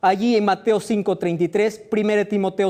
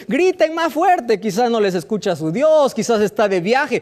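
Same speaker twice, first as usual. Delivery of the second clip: mocking taunt. Elijah taunting the four hundred prophets, mocking. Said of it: "Elías se burlaba y decía".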